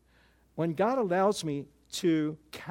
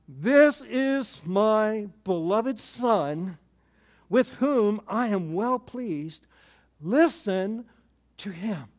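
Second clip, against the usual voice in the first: voice from heaven; 2 semitones higher, 3 dB louder, much slower than usual. Retold or imitated. Voice from heaven quoted slowly.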